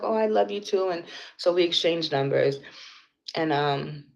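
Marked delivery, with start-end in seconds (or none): 0.0-0.9 higher-pitched imitation of her; young woman's reply. Retelling the young woman's reply to affection, lightly voiced higher. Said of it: "she's like".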